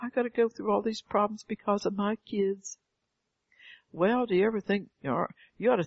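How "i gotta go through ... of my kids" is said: higher-pitched mock whine; self-centered complaint. Preacher mimicking parents blaming their kids, self-centered complaint. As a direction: lightly imitate a self-pitying parent. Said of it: "we're so self-centered".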